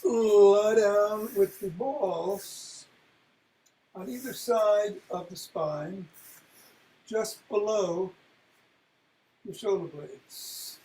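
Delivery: slow, drawn-out teaching pace; slow instruction. Shown as a demonstration. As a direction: spell out each step slowly. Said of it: "slow demonstrating instruction".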